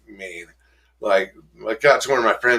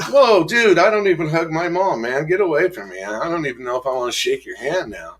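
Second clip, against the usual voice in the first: mock recoil; 6 semitones higher than usual. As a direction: push the hugger away in alarm. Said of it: "And I'm like".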